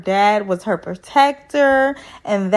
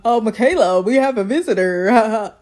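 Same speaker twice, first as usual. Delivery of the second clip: fake casual. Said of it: "Zach trying to act all normal".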